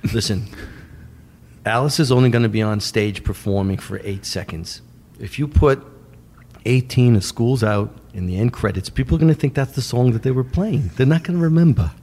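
lightly imitated New York manager; Shep Gordon. Manager persuading filmmaker about end credits, lightly imitated. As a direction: reason it out calmly, rising at the end. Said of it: "He talks like this. Very, very deep".

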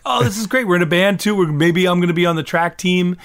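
breezy mock excitement of kids in a band; carefree enthusiasm. Bandmates chatting about their fun plans, imitated carefree enthusiasm.

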